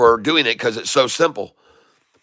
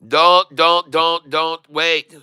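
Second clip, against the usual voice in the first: urgent; 2 semitones higher, much slower than usual. Real, not acted. Urging viewers to sell.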